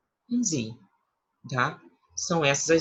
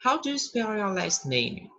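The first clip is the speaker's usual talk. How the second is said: slow English question, pitched higher; slow model question; 6 semitones higher than usual. Shown as a demonstration. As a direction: ask it slowly for learners. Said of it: "Como você pronuncia o seu último nome". (pergunta modelo lenta e mais aguda)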